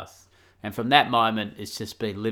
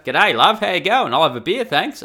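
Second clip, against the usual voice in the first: higher, louder broad Australian greeting; hammed-up Australian; 8 semitones higher, 10 dB louder than usual. Australian man ordering a beer in Louisiana, hammed-up Australian accent. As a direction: lay on the Australian accent, chatting up a bar. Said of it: "how well the Australian accent goes in Louisiana".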